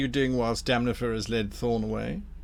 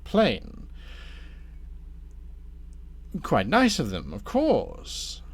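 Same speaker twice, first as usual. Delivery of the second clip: courteous tempter with swooping emphasis; lightly voiced scheming Damnifer; 3 semitones higher than usual. Damnifer turns Thorn from friends to foliage, lightly voiced courteous schemer. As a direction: steer them smoothly towards business. Game master plays Damnifer.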